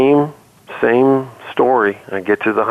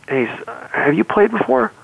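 coach voice; 11 semitones higher than usual. Retold or imitated.

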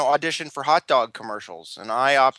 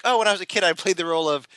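raised, airy mock posh British; posh British accent; 4 semitones higher than usual. Shown as a demonstration. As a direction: put on a lovely English lilt. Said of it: "it sounds lovelier".

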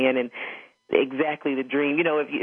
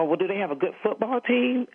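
higher, mock-innocent question to dad; condescending; 6 semitones higher than usual. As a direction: play it as a snooty teen toying with her father. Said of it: "I was just being condescending".

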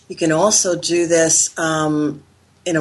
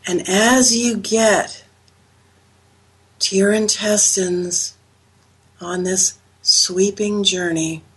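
slow calm meditation voice; guided meditation; 3 semitones higher, slower than usual. Acted. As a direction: guide them gently into relaxation. Leads a guided Reiki journey.

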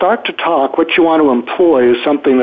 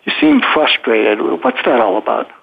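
calm, even matter-of-fact statement; 2 semitones lower than usual. Shown as a demonstration. Coach demonstrating what to say to someone upset, matter-of-fact. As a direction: state it plainly, without complaining. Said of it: "your tone is sort of matter of fact".

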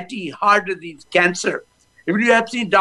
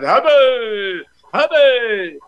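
energetic hubba; 3 semitones higher, much slower than usual. Shown as a demonstration. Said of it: "Your brain cell gets shot".

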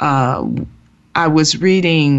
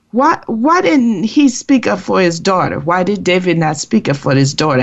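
higher, indignant retold questioning; retold anger; 4 semitones higher than usual. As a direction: replay being angry, pitch raised at the start. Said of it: "Now I'm really getting angry".

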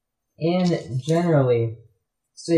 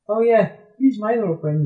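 a bit higher, chummy cartoon shark; shark introducing friend; 7 semitones higher than usual. Shark showing off his hammerhead friend, higher chummy voice. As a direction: present your little friend cheerfully. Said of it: "with the hammerhead shark".

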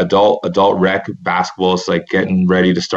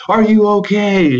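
much higher and slower, pleading; frantic concern; 13 semitones higher, slower than usual. Retold or imitated. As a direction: ask it like you're still panicking. Panicked rescuer asks revived man.

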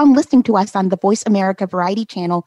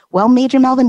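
hailing the Major, loud and high; loud gung-ho soldier; 6 semitones higher, 6 dB louder than usual. Real, not acted. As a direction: call his rank out with pride. Host hails guest loudly.

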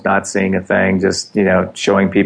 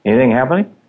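mock hopeful check; 5 semitones higher than usual. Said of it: "I'm sitting there going".

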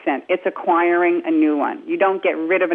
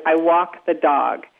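New York accent demo; 2 semitones lower, slower than usual. Shown as a demonstration. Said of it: "let's say with I".

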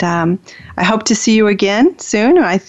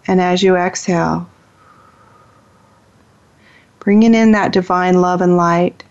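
guided meditation. Acted. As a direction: ease listeners into stillness, unhurried. Leads a meditation.

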